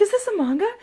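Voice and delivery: high-pitched, delighted question; excited retelling. Retold or imitated. Reacting to mom's gift of a manga, excited. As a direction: ask it thrilled, laughing. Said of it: "I was so excited".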